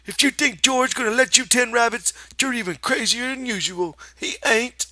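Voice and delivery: high, loud contemptuous shout; shouting rabbit. Acted. The rabbit rants at Lenny, loud high shout. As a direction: rant at him.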